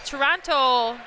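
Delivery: "Toronto" with a light, tentative local Toronto accent. Shown as a demonstration. Commentator checking with viewer from Toronto, attempted Toronto accent. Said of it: "did I say it with the accent".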